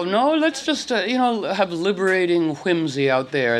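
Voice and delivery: high, playful pitch jump; high mock voice. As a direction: go high and whimsical. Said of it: "and then I go".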